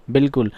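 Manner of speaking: "बिल्कुल" as bil-kul, short first vowel; brisk bil-kul answer on "बिल्कुल"; silent alif. Shown as a demonstration. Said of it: "क्या पढ़ेंगे".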